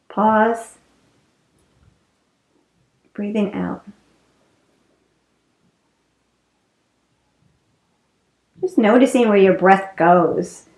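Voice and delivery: calm breath cues with long pauses; guided breathing. Real, not acted. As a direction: lead them gently through one breath. Leads another guided breath.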